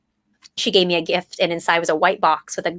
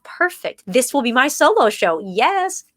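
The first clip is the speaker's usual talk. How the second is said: excited; 5 semitones higher, slower than usual. Retold or imitated. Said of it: "And I was like".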